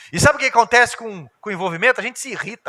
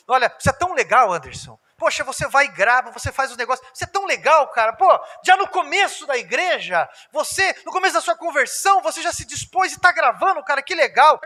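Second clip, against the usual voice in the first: mock flatterer; 5 semitones higher, 3 dB louder than usual. Dissimulator flattering, voiced.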